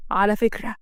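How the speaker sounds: a hint of a stern husband; rebuffing male boss. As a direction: throw her words back as a stern boss.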